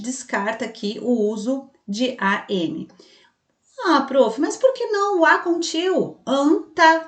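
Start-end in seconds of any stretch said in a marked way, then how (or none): 3.9-6.2 lightly voiced pupil, pitched up; a hint of a questioning pupil, higher voice; mock pupil objection. Teacher voicing a pupil querying the rule, lightly acted objection. 6.3-7.0 "anta" said higher and louder, AN-TA; sounded-out word. Shown as a demonstration. Pupil's example to prof, "anta" sounded out high and loud. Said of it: "tem o som".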